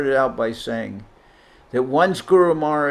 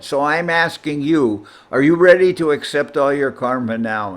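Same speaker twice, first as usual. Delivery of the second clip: retold challenge; 2 semitones higher, 5 dB louder than usual. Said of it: "And Govinda Maharaj said".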